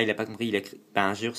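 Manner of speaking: ordinary talk, nothing marked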